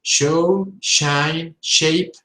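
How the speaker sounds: sh in Show, shine, shape; smooth sh on each word; soft sh words. Shown as a demonstration. Teacher drilling sh words.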